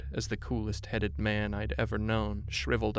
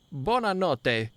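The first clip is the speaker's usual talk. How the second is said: slow, higher crooner goodnight in Italian; a classic crooner; 7 semitones higher, 4 dB louder, slower than usual. A narrator's reading. Host seeing guests off, a crooner's croon. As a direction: croon it like a lounge singer. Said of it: "in the best crooner impression he could conjure".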